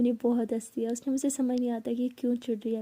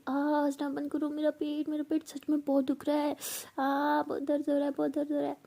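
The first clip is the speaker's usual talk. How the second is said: faked stomach pain; 4 semitones higher than usual. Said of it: "अम्मी को सच में बहुत पेन".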